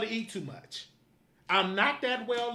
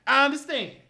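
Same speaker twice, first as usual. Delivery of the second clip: "I understand" louder and higher, pushed out; louder, upset; 4 semitones higher, 5 dB louder than usual. Real, not acted. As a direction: repeat "I understand" with an upset push. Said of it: "I'm a little upset".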